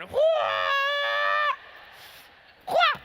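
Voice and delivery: loud, high-pitched kung fu cry; karate yell. Retold or imitated. Speaker replaying his Karate Kid kick, karate yell. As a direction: let out a mock Karate Kid "hua". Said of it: "I went".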